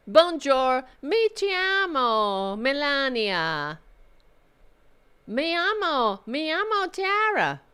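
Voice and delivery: mocking, overblown self-introduction; mock polyglot. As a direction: ham up the foreign phrases. Mocking Melania's language claims.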